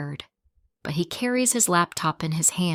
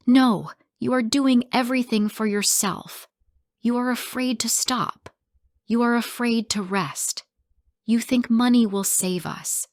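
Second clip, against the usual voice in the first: high, raised accusing voice; shouting back; 5 semitones higher than usual. Acted. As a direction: fire it back at him. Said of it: "I shout back".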